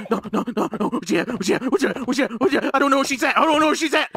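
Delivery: rapid-fire panicked repetition; scared. Real, not acted. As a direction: repeat it under your breath in fright. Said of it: "I'm fucking scared".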